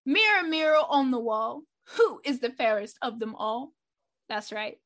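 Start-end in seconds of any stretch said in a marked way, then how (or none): 0.0-3.7 dramatic call. Acted. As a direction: call it out like a show opener. Dramatic show-opening call.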